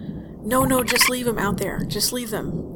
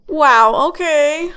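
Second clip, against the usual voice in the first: stunned wow; 6 semitones higher, 12 dB louder, much slower than usual. Acted. Host shocked by caller.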